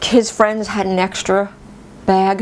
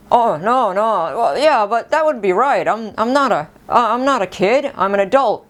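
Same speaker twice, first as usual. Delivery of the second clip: higher, wavering mock protest; feigned reluctance; 4 semitones higher than usual. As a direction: politely protest while secretly wanting to say yes. Feigned reluctance, hiding her excitement.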